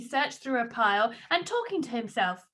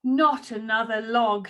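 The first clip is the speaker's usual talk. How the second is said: weary sigh; 3 semitones lower, slower than usual. Acted. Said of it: "she sighed".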